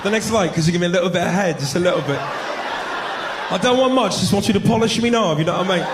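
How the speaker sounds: hammed-up English accent; cheeky mock-English proposition. Man coaxing his date after the show, English accent. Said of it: "English accent, that just roll off the tongue different".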